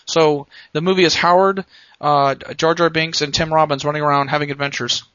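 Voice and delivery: hammy director explaining his edits; George Lucas impression. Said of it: "Worst kind of impression".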